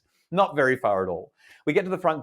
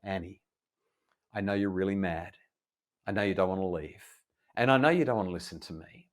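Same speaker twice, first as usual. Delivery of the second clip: soft, calm, serious coaxing; solemn and gentle; 5 dB quieter than usual. Retold or imitated. Father calmly asking his angry daughter to step outside, soft. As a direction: soothe her without backing down. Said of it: "in all solemnity, in all seriousness".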